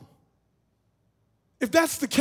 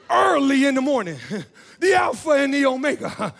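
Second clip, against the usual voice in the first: laughing mock preaching; 3 dB louder than usual.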